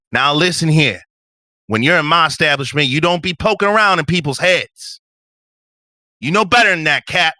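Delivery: high, loud indignant telling-off; mad scolding. Acted. Nina tells off Patch for poking in heads, mad. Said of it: "Like, she just looks mad".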